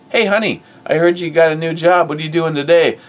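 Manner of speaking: high, loud, bubbly wife greeting; hammed-up wife eager to hear about the new job; mock sweet wife. Wife voiced in mock dialogue.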